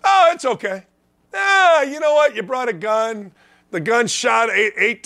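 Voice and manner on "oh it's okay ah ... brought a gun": much higher, sneering mock reassurance; mocking sing-song. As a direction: lampoon the fake tolerance. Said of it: "and we don't say".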